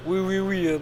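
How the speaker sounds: playing a Russian on the phone; Russian accent. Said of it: "prends ton accent russe".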